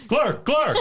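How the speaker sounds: high gurgled glurg glurg; gurgling dog voice. Pretend. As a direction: gargle it like a silly dog. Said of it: "And then the dog goes".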